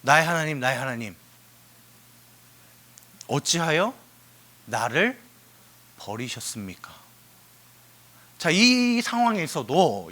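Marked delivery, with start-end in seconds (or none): 0.0-6.9 low, fading anguished plea. Acted. Jesus on the cross, low and fading. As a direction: let it die away at the end. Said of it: "무슨 뜻이에요".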